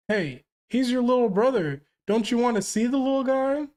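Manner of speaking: put-on high, pleading kid voice; eager child. Sister begging mom to see her brother, high childlike pleading.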